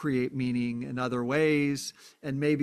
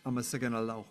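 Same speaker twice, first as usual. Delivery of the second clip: rough Amharic; 4 semitones lower, 5 dB quieter, much faster than usual. Shown as a demonstration. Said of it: "I'm not saying it with a very good accent".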